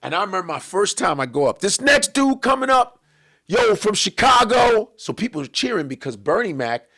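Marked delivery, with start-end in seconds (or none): 1.6-4.9 slow, loud MC hype call; host announcing. Retold or imitated. Host introducing the comic to the crowd, big slow announcer call.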